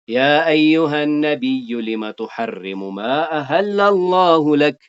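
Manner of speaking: slow, drawn-out chanted recitation; measured Quranic recitation. Acted. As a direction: recite the verse slowly, stretching the vowels. Recites Quran verse in lesson.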